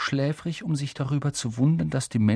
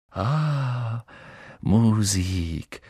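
moved to tears; much slower than usual. A narrator's reading. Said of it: "sagte er und wischte sich die Augen".

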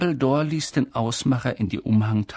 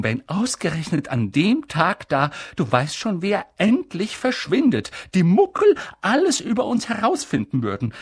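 McGonagall voice; 4 semitones higher than usual. Acted. McGonagall worried question.

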